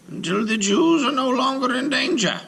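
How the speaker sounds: high, firm voice of a stern rabbi. Acted. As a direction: give the giant his orders one by one. Rabbi replies to golem.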